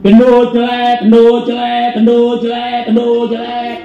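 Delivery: high, loud sing-song taunt, repeated; mocking schoolkid taunt. Bullies jeering at the boy at school, high mocking chant. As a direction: jeer at the fat boy like a playground bully.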